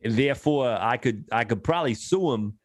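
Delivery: lightly put-on New York accent; a hint of a brash New Yorker. To his friends, a mild New York accent as a driver beside a truck. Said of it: "That New York accent slays me every time".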